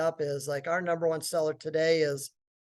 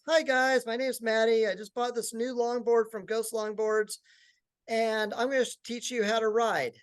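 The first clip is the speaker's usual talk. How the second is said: imitating a teen girl vlogger, higher pitch; girl's video intro; 5 semitones higher than usual. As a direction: lightly put on a high-pitched high schooler's video greeting. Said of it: "she does this video and says".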